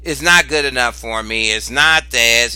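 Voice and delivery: mock nonchalant refusal. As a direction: brush it off, unbothered. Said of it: "You being nonchalant".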